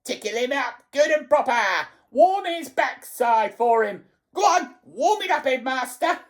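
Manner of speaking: high, frenzied egging-on; piercing, excited goading; shrieking old harridan. A narrator's reading. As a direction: screech it with mounting, spiteful glee. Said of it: "shrieked Missus Pratchett".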